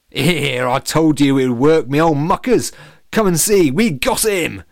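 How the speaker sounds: loud, high cockney gloat; gloating villain. Acted. Evil banana calls his mates, loud gloating. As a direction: crow to your mates.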